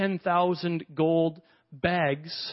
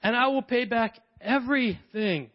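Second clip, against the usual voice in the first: pleading; 4 semitones higher than usual. Retold or imitated. Servant pleading to the king.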